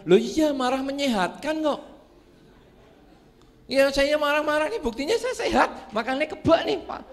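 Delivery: high, laughing brag that anger keeps him healthy; laughing boast. Acted. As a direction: chuckle through the bragging. Angry man brags, laughing. (bangga sambil tertawa)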